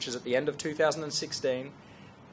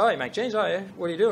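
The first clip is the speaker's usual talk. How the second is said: lightly voiced chatty questioner, pitched up; imitated Canadian guy; 6 semitones higher, much faster than usual. Canadian stranger quizzing the jeans maker at a round table, lightly imitated. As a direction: echo it back as a higher, casual question. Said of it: "this Canadian guy goes".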